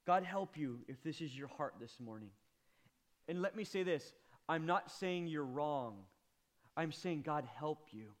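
preacher comforting a hurting congregation; tender. Real, not acted. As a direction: speak gently to the hurting.

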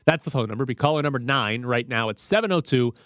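fast, punchy radio giveaway read; radio contest promo. Real, not acted. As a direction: hype the call-in contest. Announces ticket giveaway.

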